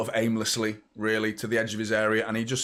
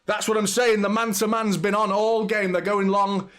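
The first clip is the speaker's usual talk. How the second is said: excited; 8 semitones higher than usual. Real, not acted. Goal celebration on live watchalong.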